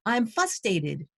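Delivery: fustated said without the first r, slowly and softly; mispronounced frustrated. Retold or imitated. Student repeating fustated to teacher, slow and soft. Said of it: "couldn't even hear or perceive the differences".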